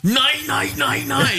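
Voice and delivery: high mock German "Nein, nein"; mock German girl refusing. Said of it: "That's, that's German".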